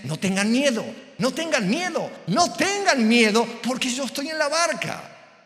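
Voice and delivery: repite cada vez más agudo y enérgico; exhortación en crescendo. Acted. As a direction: sube hasta una proclamación aguda. Predicador da voz a Jesús, en crescendo. (arenga de predicador que va creciendo)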